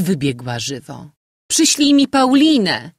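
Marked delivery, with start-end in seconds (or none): 1.5-2.9 much higher, louder command; shouting. A narrator's reading. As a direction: shout after her mother for the maid. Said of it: "krzyknęła Mojna".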